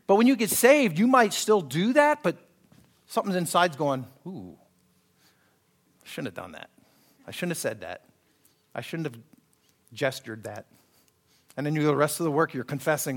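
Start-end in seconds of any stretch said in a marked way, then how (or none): 4.3-10.7 much lower, softer remorseful sigh; mock pricked conscience; guilty murmur. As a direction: whisper your regret to yourself.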